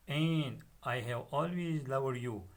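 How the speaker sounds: fond slow reading. Acted. Father's tender line read.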